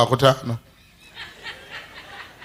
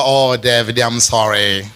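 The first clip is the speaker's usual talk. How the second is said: mocking officer; 5 semitones lower than usual.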